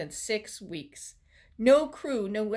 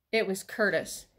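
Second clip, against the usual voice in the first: plain reading voice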